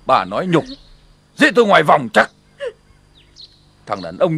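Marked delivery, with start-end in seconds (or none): none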